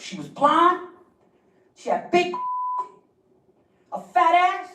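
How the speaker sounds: squeaky hyped-up boasting guy; quoting a hyped-up guy in a high squeal; high mock dude voice. Imitating the dude's boast.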